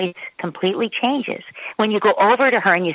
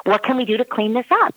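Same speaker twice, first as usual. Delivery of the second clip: gentle parent; 4 semitones higher, faster than usual. Retold or imitated. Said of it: "and you say".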